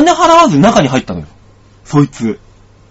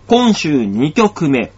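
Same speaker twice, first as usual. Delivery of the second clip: DJ song intro; much slower than usual. Acted.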